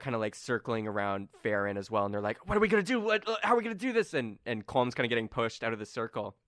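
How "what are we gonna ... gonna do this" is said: higher, hurried fretting; nobles panicking. Acted. Game master as nobles fretting about tomorrow's election. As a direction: babble in alarm.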